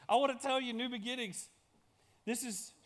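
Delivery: ordinary talk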